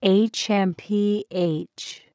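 slow, mildly huffy snort, spelled out. A narrator's reading. Old Triceratops snorts at the noisy newcomer, mildly huffy. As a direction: spell out a huff, drawn out. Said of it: "snorted George".

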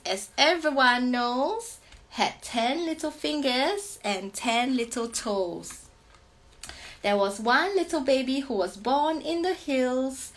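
slow sing-song teacher read-aloud; sing-song picture-book reading; reading to children. Acted. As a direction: read it slowly, like a teacher to little kids. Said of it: "such a teacher voice".

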